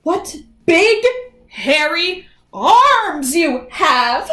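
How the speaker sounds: Little Red growing suspicious; carefully. Acted. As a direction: ease it out nervously. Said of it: "Little Red said carefully".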